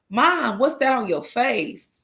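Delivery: a light imitation of a puzzled kid; child's questioning. Kids ask crying mother about her face, lightly imitated puzzlement.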